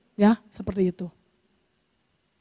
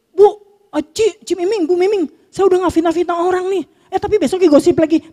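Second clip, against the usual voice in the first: gossiping congregant; 7 semitones higher than usual. Retold or imitated. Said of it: "Ayo loh".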